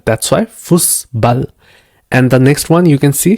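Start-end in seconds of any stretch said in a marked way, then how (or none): 0.4-1.5 slow "Fußball" with pressure on the S; pressed double S. Shown as a demonstration. Teacher explaining eszett to learners, slow pressed S in "Fußball". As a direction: press and hold the S in "Fußball", slowly. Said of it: "give some kind of pressure".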